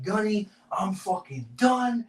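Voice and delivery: high, slow fake breakdown voice; fake meltdown. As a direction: ham up a distraught recruiter. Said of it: "I go all out".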